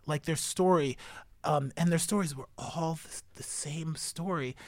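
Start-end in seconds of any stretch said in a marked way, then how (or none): 2.3-4.6 drops to a near whisper; soft, breathy hush. Real, not acted. Filmmaker recalling prisoners' stories, hushed near whisper.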